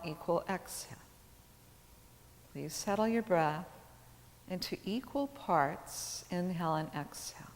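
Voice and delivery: calm yoga teacher guiding breath awareness; measured phrases with long, settling pauses; guided meditation. Acted. Leads seated breath awareness.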